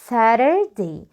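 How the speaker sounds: Saturday drawn out as 'Sarer-day'; American flapped T. Shown as a demonstration. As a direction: model Saturday slowly with a light flap for T. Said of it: "في الأمريكان إنجلش".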